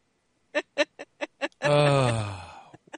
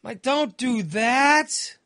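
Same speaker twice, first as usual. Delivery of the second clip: high, pleading "don't clean the toilet"; horrified inner plea; 11 semitones higher, 5 dB louder than usual. Retold or imitated. Picturing his wife scrubbing his mess, high horrified plea. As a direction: beg her in his head to stop, slowly.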